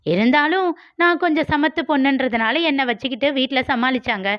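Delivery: high, quick, mocking girl's voice; teasing girl Malar. Malar mocks Vicky on the street, high and teasing. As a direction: needle him like a cocky young woman.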